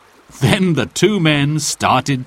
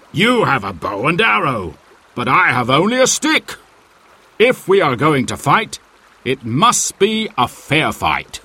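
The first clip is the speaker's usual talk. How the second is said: a lightly voiced big stranger, steady and firm; the tall man holding his ground; hint of a sturdy challenger; John Little; 3 semitones higher than usual.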